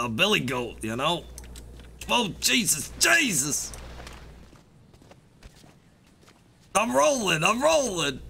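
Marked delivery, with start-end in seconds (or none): 2.1-8.2 high panicked cry while falling; panicked yelling. Real, not acted. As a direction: yell in alarm as you tumble. Tumbling down the hill.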